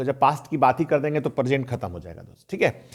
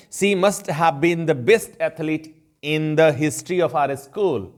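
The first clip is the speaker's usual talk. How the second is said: very slow, careful English example sentence; slow example read; much slower than usual. Shown as a demonstration. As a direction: read each word out slowly for the class. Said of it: "teacher reads example slowly". (धीरे-धीरे उदाहरण वाक्य पढ़ना)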